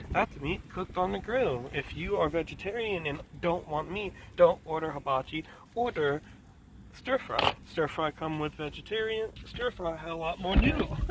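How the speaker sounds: calm, patient but irritated quote; mock patient. Lady explaining hibachi to a caller, patient but irritated. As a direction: patiently explain while clearly annoyed. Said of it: "she was being so calm and patient".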